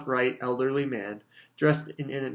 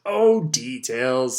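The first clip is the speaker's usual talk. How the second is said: slow, louder brush-off; dismissive; 6 dB louder, much slower than usual. Acted. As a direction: wave the word away. Bagman waves it away.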